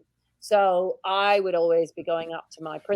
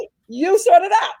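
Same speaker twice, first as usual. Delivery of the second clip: weary principal; 10 semitones higher, 7 dB louder than usual. Retold or imitated. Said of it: "the principal would say".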